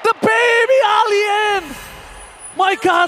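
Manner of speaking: high, loud hype call; fighting game announcer. Real, not acted. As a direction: scream the highlight to the crowd. Caster calls a kill streak.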